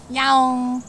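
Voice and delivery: cat meow. Shown as a demonstration. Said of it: "in Korean they go yaong".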